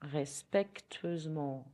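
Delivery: slowed, careful French; slow repeat. Shown as a demonstration. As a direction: say respectueusement slowly. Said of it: "in French".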